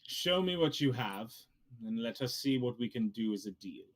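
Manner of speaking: measured character voice, proposing a deal; hint of a bargaining character; lightly voiced dealmaker. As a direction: lightly play a formal negotiator. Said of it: "he turns to you and goes".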